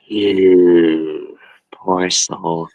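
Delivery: slow, drawn-out pity; pitying mom. Retold or imitated. Mom laughs and pities her stoned son. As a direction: pity him slowly, amused.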